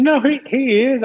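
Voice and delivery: high, loud, stammered protest; defensive protest. Real, not acted. Friend accused of not shouting him out, defensive protest. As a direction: protest loudly, tripping over the words.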